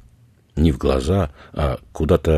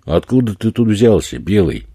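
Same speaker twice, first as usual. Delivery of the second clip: hostile questioning; 6 semitones higher, 5 dB louder than usual. A narrator's reading. Eddie questions the tourist.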